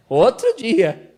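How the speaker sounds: loud, slow teasing reply; slow loud retort. Real, not acted. Comic aside to wife.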